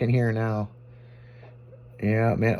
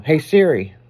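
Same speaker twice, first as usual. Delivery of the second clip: louder, clear summons; calling voice assistant; 3 semitones higher, 6 dB louder than usual. Real, not acted. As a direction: call out to the phone assistant.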